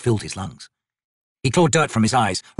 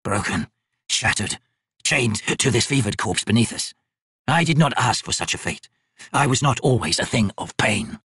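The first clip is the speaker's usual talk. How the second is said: mild lament. Acted. Crippled figure laments.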